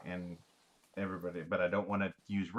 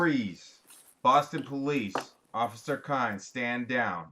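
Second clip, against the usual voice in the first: raised, commanding officer's challenge; police shout; 3 semitones higher, 5 dB louder, slower than usual. Acted. Player's officer orders suspects to stand down, acted shout. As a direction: call out orders like an armed officer, short of full volume. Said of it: "now I'm going to shout".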